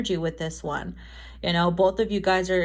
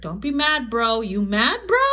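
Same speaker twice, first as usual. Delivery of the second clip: sassy teasing; 3 semitones higher than usual. Pretend. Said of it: "a little sassy ... sarcastic attitude".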